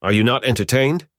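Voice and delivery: high, loud arena-wide challenge; booming defiant gladiator. Retold or imitated. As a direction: roar it at the crowd like a gladiator. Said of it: "do your best gladiator impression".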